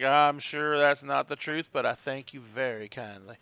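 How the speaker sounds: lightly drawled Southern hostess; Southern hostess accent. Acted. Hostess thanking a flattering guest, light Southern accent. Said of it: "You throw on that accent".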